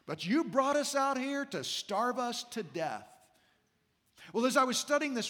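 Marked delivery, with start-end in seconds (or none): 0.0-3.0 mildly voiced grumbling crowd; a touch of mock grievance. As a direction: complain as the aggrieved community. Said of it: "this whole community is grumbling".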